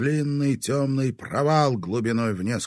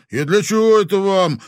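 gloomy; 11 semitones higher, 12 dB louder than usual. A narrator's reading. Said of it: "хмуро спросил у ребят Виктор".

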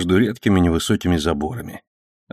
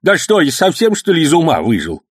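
put-on high, louder indignant old man; flaring up; 8 semitones higher, 4 dB louder than usual. A narrator's reading. Old host suddenly flaring up at the policeman, indignant and loud. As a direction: bristle at the insult. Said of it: "завёлся вдруг хозяин дома".

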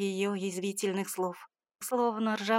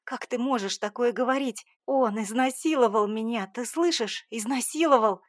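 louder, higher outcry, building to a shout; hysterical tearful shout; 3 semitones higher, 5 dB louder than usual. Acted. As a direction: scream it at her, near hysteria. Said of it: "начиная задыхаться от истерики".

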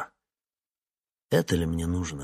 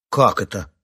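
sharp, louder burst of surprise; astonished; 7 dB louder than usual. Acted. Nastya hearing the all-night job, astonished. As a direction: gape at the news. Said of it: "изумилась Настя".

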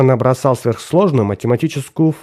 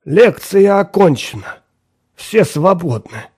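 curt dismissal; 6 semitones higher, slower than usual. Acted. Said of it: "Уоррендер бросил".

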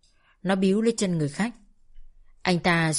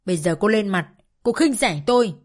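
higher and louder, a furious wounded rant; angry tearful tirade; 4 semitones higher, 3 dB louder than usual. Acted. Mother berating her daughter over money, furious loud tirade. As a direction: pour out years of grievance, voice raised. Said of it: "Mẹ tôi càng nói hình như càng tức giận".

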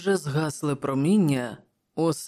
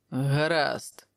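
grumbling. Acted. King lets Prospero go, grumbling mildly. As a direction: grumble it reluctantly, understated. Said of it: "пробурчав король".

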